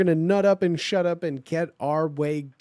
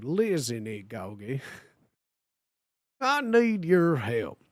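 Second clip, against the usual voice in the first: put-on Southern cornbread accent; slower than usual. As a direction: drawl it like a rural Southerner. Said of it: "Southern cornbread accent".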